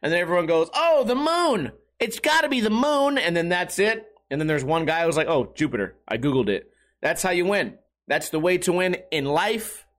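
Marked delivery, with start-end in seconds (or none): 0.7-3.2 high, dopey mock answer; high dopey mock of wrong answers; mock dumb voice. Mimicking dumb trivia answers. 5.3-6.7 low, smug deadpan; smug know-it-all. Retold or imitated. Mimicking smug correct guy.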